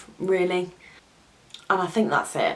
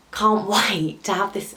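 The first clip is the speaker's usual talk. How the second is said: teary laugh breaking through; getting emotional; 3 semitones higher than usual. Real, not acted. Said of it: "oh God, I'm getting emotional".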